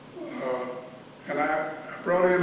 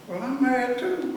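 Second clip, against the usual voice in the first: firm retort; 8 semitones higher than usual. Retold or imitated. Retorting to angry inmate.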